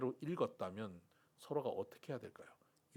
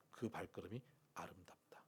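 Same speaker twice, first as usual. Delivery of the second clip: soft whispered awe; 6 semitones lower, 11 dB quieter than usual. Real, not acted. Pastor to congregation, whispered awe. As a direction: let it fall to a whisper. Hushed after urging.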